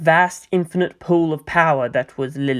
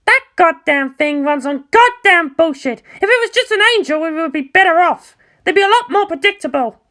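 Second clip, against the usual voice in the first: harsh Asuka; 12 semitones higher, 4 dB louder than usual. Acted. Asuka sneering about Shinji's Eva to Mayumi, higher scornful voice. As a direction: spit it out high and contemptuous.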